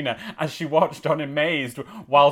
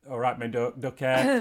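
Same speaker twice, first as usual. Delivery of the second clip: Nottingham accent; 3 semitones lower than usual. Shown as a demonstration. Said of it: "let me get a Nottingham accent".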